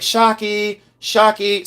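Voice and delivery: high mock call, no real volume; retold scream. Retelling the search for Shocky, a high mock scream. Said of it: "screaming at the top of my lungs".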